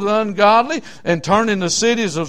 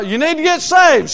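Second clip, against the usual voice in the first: higher-pitched, insistent soul-winning plea; raised-pitch preacher's warning; urgent preaching; 7 semitones higher, 4 dB louder than usual. Retold or imitated. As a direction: press it on them like a street preacher. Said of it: "I got there and I said".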